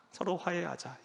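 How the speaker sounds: a quiet echo of 서로 화해하자; soft repeat. Shown as a demonstration.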